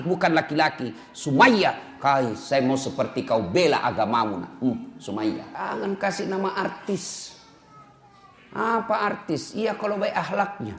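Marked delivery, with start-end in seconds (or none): 1.1-4.5 tender father. Pretend. Father tenderly naming daughter. 4.6-10.7 hushed aside. Real, not acted. Soft aside to congregation.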